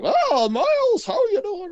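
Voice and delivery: high, slow mock greeting voice; high mock visitor voice. Imitating a hospital visitor greeting him, high and slow. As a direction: stretch it out high and sugary. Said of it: "He's like".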